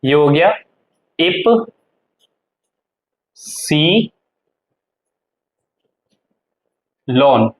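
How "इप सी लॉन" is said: इप, सी, लॉन with long pauses; syllable by syllable. Shown as a demonstration. Teacher spelling out German Y, इप सी लॉन widely spaced. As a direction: split इप्सिलॉन into three slow pieces. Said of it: "इसको बोलते हैं इप्सिलॉन".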